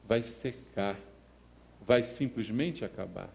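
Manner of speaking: usual speaking voice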